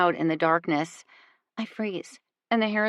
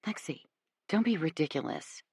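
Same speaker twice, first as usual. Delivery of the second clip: scoffing; 2 semitones lower, 7 dB quieter than usual. A narrator's reading. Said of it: "she scoffs".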